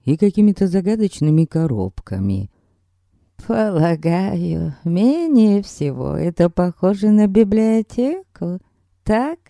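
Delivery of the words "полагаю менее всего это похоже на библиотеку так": put-on sweet old lady.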